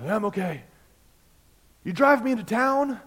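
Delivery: put-on high, loud, loose drunk voice; drunk driver. Drunk driver in a ditch asking the pastor for a ride, slurred. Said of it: "He is completely drunk".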